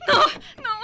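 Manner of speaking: high sobbing protest; crying no. Acted. Woman in the locked car refusing the officer, crying high. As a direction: wail it in fear.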